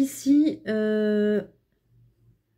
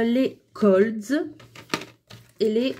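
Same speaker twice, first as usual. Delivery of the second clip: slow, careful try at an English word; clumsy English accent; much slower than usual. Real, not acted. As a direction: stretch out Colds in shaky English. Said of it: "avec mon super accent". (accent anglais maladroit, lent)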